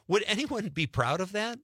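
high, incredulous question; indignant. Real, not acted. Customer questioning a childish badge, indignant.

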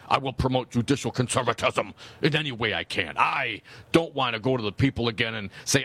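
lightly mocking pompous politician voice. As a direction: read it like a self-important judge. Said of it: "your most pompous voice".

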